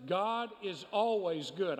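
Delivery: emphasize "always" with firm conviction; stress on always. Real, not acted. Preacher assuring the congregation God is good, stress on "always". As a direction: lean on "always". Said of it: "notice the emphasis on the word always".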